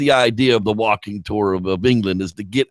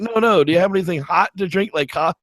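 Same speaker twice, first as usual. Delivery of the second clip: incredulous traveler; 6 semitones higher than usual. Retold or imitated. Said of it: "They're like".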